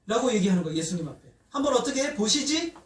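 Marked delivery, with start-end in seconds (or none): 1.5-2.7 higher-pitched dare with rising end; taunting demon. Acted. Demon challenging Jesus over the child, taunting. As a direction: dare them to try. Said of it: "이렇게 하는 거예요".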